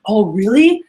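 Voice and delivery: excited reaction to a deal; Mikey. Retold or imitated. Salesman on the phone to his manager, playing up excitement. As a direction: act out eager, bubbly agreement. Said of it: "you give us a deal to get excited".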